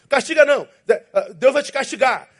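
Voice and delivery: a scolding caricature of a fire-and-brimstone believer; mocking believer. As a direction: parrot them in a sneering high voice. Mocking the punishing-God believers.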